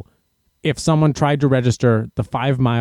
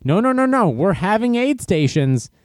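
race director; 5 semitones higher than usual. Retold or imitated. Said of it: "what the race director said is like".

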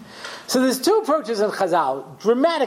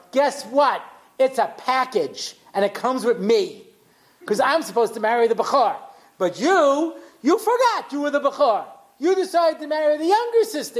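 retelling, climbing from level to much higher and sharper; Leah's retold comeback, growing more heated, pitch climbing; building indignation; 5 semitones higher than usual. Leah tells Yaakov off, building mock indignation.

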